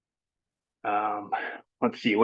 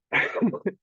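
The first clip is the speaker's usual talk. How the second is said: breathy laugh; 9 semitones higher than usual. Real, not acted. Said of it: "excuse me, I'm out of breath".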